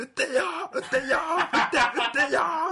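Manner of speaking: slightly loud shout. Explaining how someone stands out, retelling a shout slightly louder than those around. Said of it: "ってちょっと大きい声で言うと".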